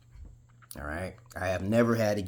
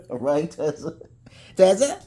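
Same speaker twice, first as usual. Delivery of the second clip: much higher and louder, calling across the room; 12 semitones higher, 11 dB louder than usual. Real, not acted. Checking on Tessa offscreen, calling loudly. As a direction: call her name to get her attention.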